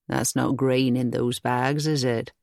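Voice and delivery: a plain country cottager reporting his errand; old cottager. Acted. Narrator voices the old cottager.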